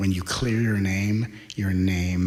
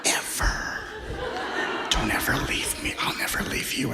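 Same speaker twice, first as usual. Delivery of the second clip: desperate pleading; 6 semitones higher than usual. Retold or imitated. The needy inner self begging a new person, whispered and desperate. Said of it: "vibrationally it might be".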